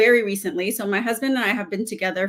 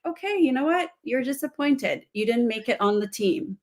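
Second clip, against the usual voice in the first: empathetic parent; 2 semitones higher, 4 dB quieter than usual. Shown as a demonstration. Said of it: "be in the inquiry".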